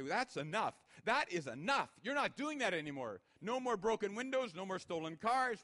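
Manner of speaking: loud, stern parent laying down the law; firm parent. Retold or imitated. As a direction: say it like a parent putting a stop to it. Firm parent voiced in sermon.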